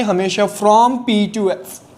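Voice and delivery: slow, deliberate; slow emphatic dictation. Shown as a demonstration. Teacher drilling the phrase into memory, slowly. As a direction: hammer the phrase home slowly. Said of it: "याद रखना है".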